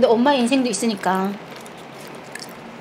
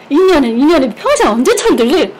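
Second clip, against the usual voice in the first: loud mock scolding mother; mom scolding; 3 semitones higher, 5 dB louder than usual. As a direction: imitate mom nagging her to grow up. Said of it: "그러면 엄마가". (철들라고 다그치는 엄마 흉내, 큰 소리로)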